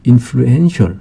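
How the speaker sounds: "influential" with the stress on EN; stress shifted to EN. Shown as a demonstration. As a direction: say "influential" as in-flu-EN-tial. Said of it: "강세 위치가 바뀝니다".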